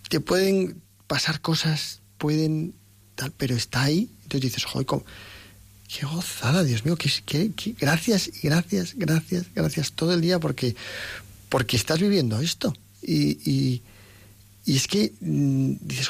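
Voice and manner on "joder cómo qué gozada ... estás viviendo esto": rising excited thanks, a touch higher; overflowing thanks, repeating gracias; joyful gratitude. Retold or imitated. Believer thanking God all day, mildly excited.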